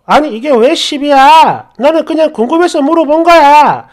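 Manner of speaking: imitated indignant reply to husband; indignant protest. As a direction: retell her own exasperated defense. Wife protests, feeling wronged.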